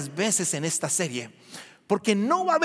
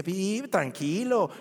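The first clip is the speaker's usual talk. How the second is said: soothing friend; 3 semitones lower, 5 dB quieter, slower than usual. Retold or imitated. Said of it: "alguien me dice".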